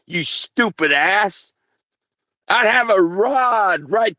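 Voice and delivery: real anger, pitch climbing as the rage builds; furious rant. Real, not acted. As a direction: tear into them for disrespecting you. Furious rant at mocking listeners.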